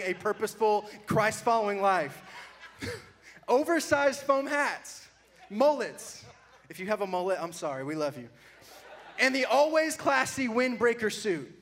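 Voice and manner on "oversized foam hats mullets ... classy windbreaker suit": mocking list. Real, not acted. Mocking his old photo.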